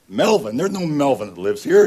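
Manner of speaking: loud, irritated man on the phone; annoyed man. Retold or imitated. Stranger answering a wrong-number call, loud and annoyed. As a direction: snap back at a wrong number.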